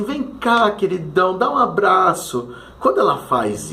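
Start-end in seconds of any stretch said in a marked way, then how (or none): 0.0-2.5 aunt's affectionate call. Retold or imitated. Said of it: "e ela falou assim".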